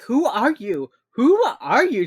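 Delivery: loud, high, demanding who they are; furious demand. Retold or imitated. Elle yelling at the men handcuffing her, loud and furious. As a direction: yell it at the agents dragging you from bed. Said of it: "She's, like, pissed as fuck".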